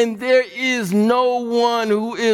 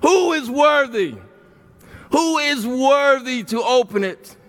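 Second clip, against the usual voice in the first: angel calling out louder; 3 semitones higher than usual. Acted. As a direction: cry it out to all the universe. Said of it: "the angel is calling out".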